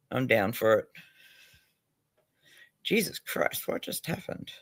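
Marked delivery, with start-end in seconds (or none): 2.8-4.5 Jesus Christ breathed out in a whisper; startled whisper. Real, not acted. Streamer whispering to herself as the stream goes weird. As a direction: hush it, thrown by the glitch.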